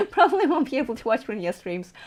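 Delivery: amused, through a laugh; laughing repeat. Real, not acted. Streamer tells viewers about losing streams, laughing. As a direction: let a real laugh run into the words.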